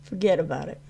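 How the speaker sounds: lightly put-on New York accent; attempted New York accent. Streamer jokes with viewers about sounding New York, attempted New York accent. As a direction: have a half-hearted go at a New York accent. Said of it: "You hear New York in my accent?".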